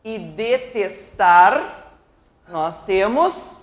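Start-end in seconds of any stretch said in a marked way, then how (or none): 0.2-1.9 DETESTAR drawn out, rising on TAR; slow DETESTAR right down and lift TAR; stress on final TAR. Shown as a demonstration. Teacher showing the kept syllable, DETESTAR slow and rising on TAR. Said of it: "o tar".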